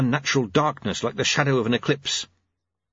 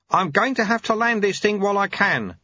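lightly voiced old man; terse old monk; old sweeper voice; 9 semitones higher than usual. Lutze voiced.

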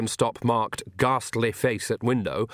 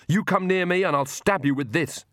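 a higher, pushed threat; fierce, raised threat; shouted; 8 semitones higher than usual. A narrator's reading. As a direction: shout the warning while backing off. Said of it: "she shouted".

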